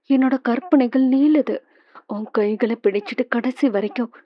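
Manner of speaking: soft, pleading voice, like a whisper on the phone. Acted. Woman softly pleading with Krishna over the phone. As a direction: coax him gently and intimately.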